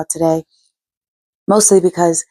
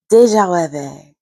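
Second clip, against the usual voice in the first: best French accent. Shown as a demonstration. Vlogger trying to pronounce the term for viewers, French accent. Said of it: "That's my best French accent".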